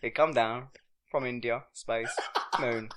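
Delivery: unvoiced whispered aside; whispering. Real, not acted. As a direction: whisper it like a secret. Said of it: "whispered aside".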